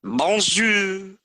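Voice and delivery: squeaky mock French greeting; high silly voice. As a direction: chirp it way up high.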